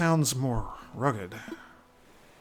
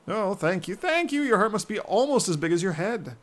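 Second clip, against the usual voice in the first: high, loud, dopey sailor bird; goofy seagull voice; 8 semitones higher, 6 dB louder than usual. Acted. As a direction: play a dazed seafaring gull.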